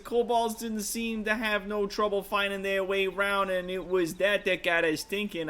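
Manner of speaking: put-on lightly done rough-edged sailor type, Brooklyn-ish accent; rough adventurer NPC. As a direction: read it as a cocky old rogue telling a tale. Rough NPC tells the heist.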